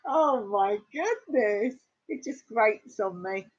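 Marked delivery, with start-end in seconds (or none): 0.1-1.7 mock despair. Listener horrified by the dropped T, mock-despairing wail. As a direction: wail it in exaggerated protest. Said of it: "I was like, "No".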